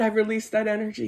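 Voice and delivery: ordinary talk, nothing marked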